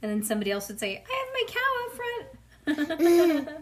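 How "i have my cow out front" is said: very high, squeaky classmate; silly kid voice. Pretend. Imagined classmate about cow.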